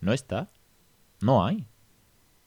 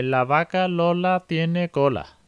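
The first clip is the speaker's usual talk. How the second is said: slow, higher, sing-song early reader voice; childish reading; 8 semitones higher, 5 dB louder, much slower than usual. Retold or imitated. Mimicking a small child's first reading, slow and higher. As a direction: spell it out like a child learning to read. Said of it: "están leyendo poco más que".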